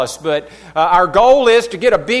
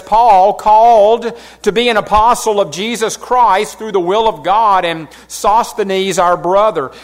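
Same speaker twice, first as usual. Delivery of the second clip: louder, measured reading of the verses; scripture reading; 3 dB louder than usual. Acted. Pastor reads the opening verses to the church, in a raised, measured reading voice. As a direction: read the apostle's greeting to the congregation.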